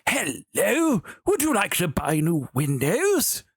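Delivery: a hint of an overly polite window seller; mock doorstep sales pitch; door salesman. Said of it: "they're like".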